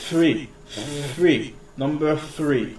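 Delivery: "Three" said slowly with the tongue tip between the teeth; "three" with a clear th, not a t or f; th sound. Shown as a demonstration. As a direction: model "number three", tongue out a little on the th. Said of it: "stick your tongue out just a little bit and say".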